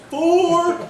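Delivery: high loud call; golf warning shout. Retold or imitated. Golfer warning players, loud high shout. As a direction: yell it across the course.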